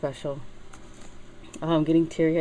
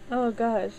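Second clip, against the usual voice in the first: higher, teary "oh gosh"; tearful sigh of words; 6 semitones higher than usual. Real, not acted. Daughter composing herself over grandma's photo, tearful. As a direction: let the tears lift the pitch. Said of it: "I'm getting teary-eyed".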